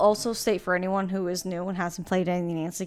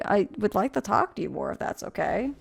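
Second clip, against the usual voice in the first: softer, politely pleading; mock polite plea; 2 semitones lower, 5 dB quieter than usual. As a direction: ask meekly to keep talking. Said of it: "And it's like".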